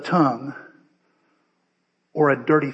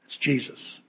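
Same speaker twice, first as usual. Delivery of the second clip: soft whispered reveal; a reverent whisper to close the reading; hushed whisper; 4 semitones lower, 10 dB quieter than usual. Real, not acted. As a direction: breathe the name out, barely voiced. Quote's climax, pastor's reading.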